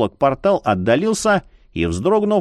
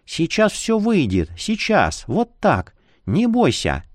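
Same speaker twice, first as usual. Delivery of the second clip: ласково; 6 semitones higher than usual. A narrator's reading. Утешает больного.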